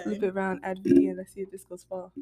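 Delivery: British accent impression; imitated UK rapper. Showing friends the UK rapper's lines, British accent. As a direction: recite it in her UK accent. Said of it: "You sound just like her".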